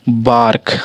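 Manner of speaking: बार्क said with a long open आ; model pronunciation. Shown as a demonstration. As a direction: stretch the आ in बार्क. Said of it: "आ का उच्चारण हो रहा है ना".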